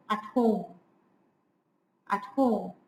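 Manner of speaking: light "At", then lean on "home"; iambic stress. Shown as a demonstration. Lecturer showing students how the meter begins, iambic stress. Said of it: "an iambic meter".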